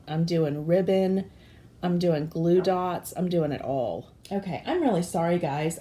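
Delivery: hoarse from allergies; rough, scratchy voice; raspy voice. Real, not acted. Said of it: "I hope that my voice is not too raspy".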